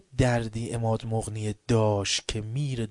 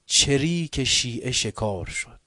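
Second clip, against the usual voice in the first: slow, louder mock broadcast; quoting enemy announcement; 2 semitones higher, 6 dB louder, slower than usual. Preacher quoting the Israeli radio, slow. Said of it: "اونا گفتن".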